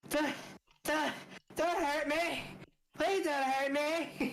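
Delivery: game master voicing the gnome begging, laughing mock plea; pleading gnome. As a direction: beg for mercy like a terrified little gnome. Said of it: "you can see this poor gnome going".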